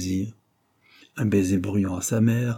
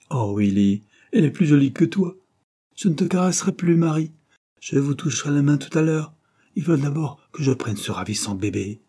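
put-on much higher, excited over the baby; gushing aunt; 6 semitones higher than usual. Aunt Marguerite to the children and maid, gushing and high. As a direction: swoon over the newborn.

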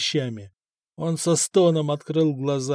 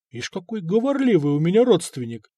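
amused bewilderment; 4 semitones higher than usual. Acted. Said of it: "с весёлым недоумением сказал князь".

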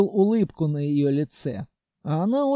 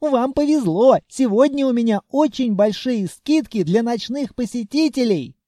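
high, louder nervous shopkeeper; hasty high voice; 6 semitones higher, 4 dB louder than usual. A narrator's reading. Scared shopkeeper eagerly offering discounts. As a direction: gush it out to save his door.

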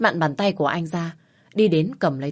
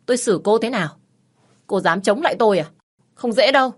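menacing threat; 5 semitones higher, 6 dB louder than usual. Acted. Husband threatening defiant wife.

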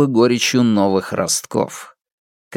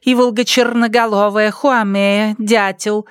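a higher character voice reeling off dishes; menu recital; 9 semitones higher than usual. Acted. Waiter listing dishes to the mayor, in a raised character voice. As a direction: list the birds like a waiter showing off.

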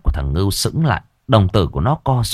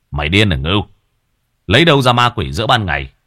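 scolding; 4 dB louder, faster than usual. Acted. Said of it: "trợn mắt quát".

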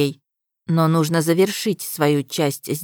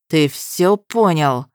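menacing; slower than usual. Acted. Destin ends threat.

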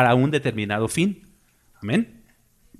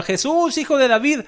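imitated cry for mercy; 7 semitones higher than usual. Blind Bartimeo calling to Jesus for mercy, imitated high cry. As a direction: call out high, stretching the plea. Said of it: "le gritaba".

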